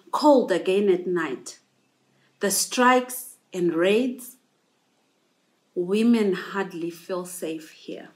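measured poem recital with long pauses; poetry reading. Acted. Scholar reading women's thoughts on Johannesburg, poetry reading. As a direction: recite line by line, letting each image land.

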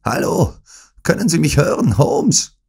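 high, loud call; sharp rousing call. A narrator's reading. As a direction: call out as if waking a sleeper. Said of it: "in dem scharfen Tone jemandes, der einen Schlafenden aufwecken will". (in scharfem Weckton gerufen)

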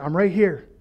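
calm, settled answer; reply evenly, lightly playing God; patient, understated voice of God; calm reassurance. God's calm answer to complaints.

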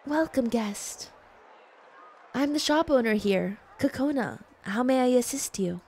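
gentle and polite. Acted. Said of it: "you guys want like gentle?".

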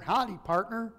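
mock Southern Howdy, partner; Southern accent. Preacher mocking the word partner in a light Southern accent. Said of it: "partner sounds like Southern".

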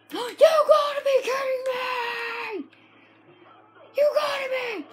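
half laugh, half yell at the game; laughing disbelief. Real, not acted. Reacting to dying in game.

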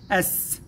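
أس as one syllable ending in a long vowelless S; closed syllable. Shown as a demonstration. Teacher splitting the word for pupils, closed syllable. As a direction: hold the S of أس with no vowel after it. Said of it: "ينطق مع الآ مقطع ساكن".

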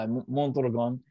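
Mondragon in a light Spanish accent. Shown as a demonstration. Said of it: "I try to have a Spanish accent".

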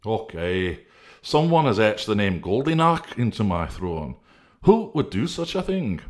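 a small voice, rising at the question; Integrity finding the carved throne, rising high; declaring. Acted. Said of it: "declared Integrity".

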